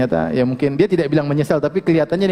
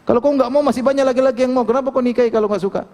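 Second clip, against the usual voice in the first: raised, sharper voice of a stern rebuke; retold scolding; 7 semitones higher than usual. Preacher retelling how he scolded a man, mock stern raised voice. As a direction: scold him for wanting to leave his wife. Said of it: "Saya marahin".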